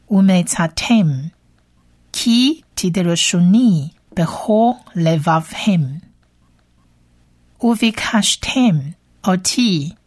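careful Hebrew verse reading, phrase by phrase; measured model reading of Hebrew scripture; reading original Hebrew. Shown as a demonstration. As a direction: read the Hebrew for learners, pausing between phrases. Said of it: "的原文读一遍".

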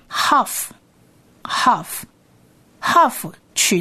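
half, half, half very slow and stretched; sounding out half. Shown as a demonstration. Teacher lingers over each half for learners. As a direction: drag half out breathily. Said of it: "half的字尾形态".

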